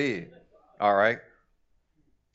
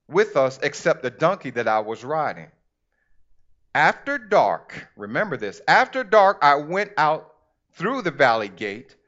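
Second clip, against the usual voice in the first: measured, emphatic scripture reading; deliberate pulpit storytelling. Acted. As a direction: read the Bible story out to a congregation. Reads scripture aloud to congregation.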